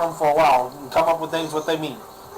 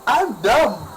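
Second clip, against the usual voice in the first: mock dumb voice; 4 semitones higher than usual. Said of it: "That's someone going".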